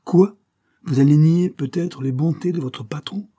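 loud, high interruption; indignant challenge. A narrator's reading. Father cutting off his pleading son, indignant.

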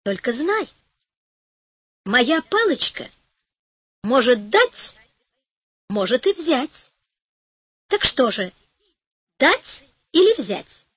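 hushed, teasing fairy voice; fairy warning the greedy old woman; sly fairy warning. A narrator's reading. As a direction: warn her slyly, drawing it out.

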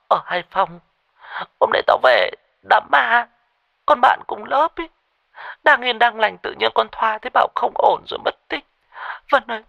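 high, shaky terrified voice on the phone; frightened friend. A narrator's reading. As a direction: tell your friend in panic that Thoa is missing. (giọng hoảng sợ qua điện thoại)

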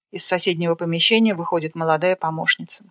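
ordinary delivery

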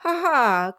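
short hollow fake laugh; forced laugh. A narrator's reading. Brass covering his nerves before Kit, forced laugh. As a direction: push out a nervous ha-ha. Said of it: "Je suis même très gai".

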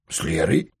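Лерой? asked back with the voice rising at the end; surprised question. A narrator's reading. Denis echoes his friend's words, mildly surprised. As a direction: catch the name, puzzled, and lift it. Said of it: "удивился Денис".

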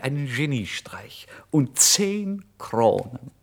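slow, breathless whisper; awed whisper. A narrator's reading. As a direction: whisper it, still dizzy with joy. Breathless after the joyful outburst.

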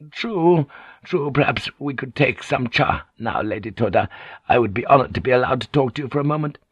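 a hint of humble courtesy; deferential Kyoko. Kyoko inviting the lady to tea, lightly deferential.

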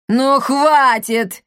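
loud, slow, drawn-out bark. Acted. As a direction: cut the quarrel short. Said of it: "рявкнула Коптильда". (рявкнуть, громко и протяжно)

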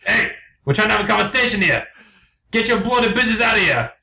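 high, indignant English bird; unconvincing English accent. Acted. Blue tells intruding birds to leave, indignant English accent. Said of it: "very Englishmen".

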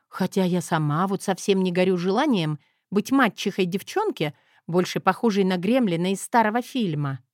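ordinary delivery

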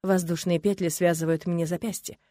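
plain reading voice

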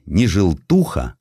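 ordinary delivery, nothing marked

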